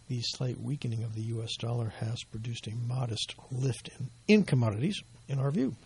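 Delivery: a raspy voice that is starting to fail; hoarse voice. Real, not acted. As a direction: voice giving out, slightly hoarse. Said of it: "It's amazing how I'm losing my voice here".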